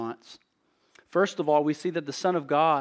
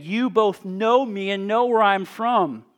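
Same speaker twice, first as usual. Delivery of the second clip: raised, declaring preacher's voice; crying out; 3 semitones higher, 4 dB louder than usual. Acted. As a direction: read it out boldly, as if addressing a temple crowd. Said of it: "Then Jesus cried out in the temple".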